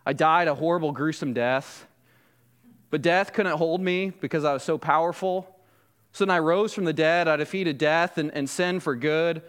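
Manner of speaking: casual, low-key understatement; acted offhand reply, pitched slightly down; nonchalant. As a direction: shrug it off as no big deal. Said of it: "in a very nonchalant way".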